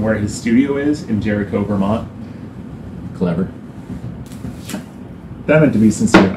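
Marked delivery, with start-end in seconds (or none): 3.1-3.5 low, quiet deadpan sarcasm; unintentionally sarcastic. Real, not acted. Vlogger praising the studio name's wordplay, accidentally sarcastic. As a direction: say it low and soft, sounding sarcastic without meaning to. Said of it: "I'm being very sarcastic".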